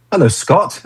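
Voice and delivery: high-pitched, mock-surprised hello; surprised greeting. Someone greeting Scott in a Djibouti street, surprised. Imagined surprise meeting abroad.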